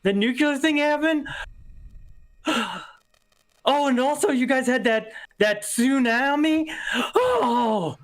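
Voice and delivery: high, tipsy sudden realization; drunk blurting. Retold or imitated. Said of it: "and I go".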